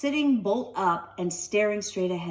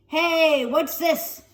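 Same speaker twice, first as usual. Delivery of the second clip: higher and louder, a sudden find; surprised call; 8 semitones higher, 7 dB louder, much slower than usual. Acted. Tom to Stella, sudden surprised call. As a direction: blurt out the discovery.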